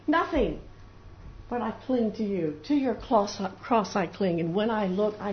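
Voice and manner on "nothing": high, loud cry for help to the Lord; acted anguished outcry; desperate plea. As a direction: call out as if sinking, helpless.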